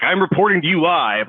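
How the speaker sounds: lightly voiced TV reporter; a hint of a live news report. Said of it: "use your reporter voice".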